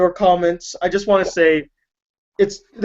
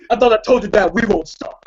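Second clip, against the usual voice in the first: laughing rapper quote. Retold or imitated. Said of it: "that's what I should have been for Halloween".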